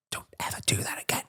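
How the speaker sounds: low warning whisper; stern whisper. Retold or imitated. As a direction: quietly warn a sent-out child. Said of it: "I just whispered".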